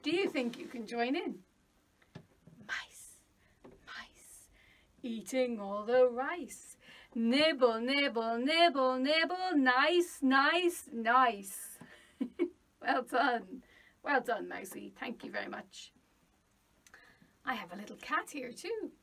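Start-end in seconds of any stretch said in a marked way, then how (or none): 2.7-11.8 quiet to loud. Shown as a demonstration. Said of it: "start off quietly ... quite loud". 15.0-15.9 a wee mouse breathing thanks in a whisper; tiny mouse whisper. Acted. Puppet mouse thanks teacher.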